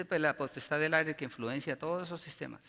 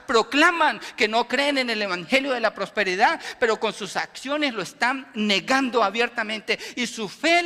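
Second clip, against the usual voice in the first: loud, driving sermon exhortation; preaching at full force; 5 semitones higher, 10 dB louder than usual. Acted. Preacher exhorting the church, loud and forceful. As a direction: preach it hard to the congregation.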